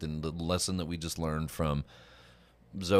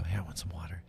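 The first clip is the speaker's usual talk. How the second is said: put-on a softer retelling of the kid's ask; mild quieter retelling; 7 dB quieter than usual. Boy asks mom for water in the hushed theater. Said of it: "you hear them go".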